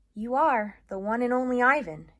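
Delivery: rally your friend; Bob encouraging. Acted. Bob cheering up Ivan, rousing encouragement. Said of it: "he says".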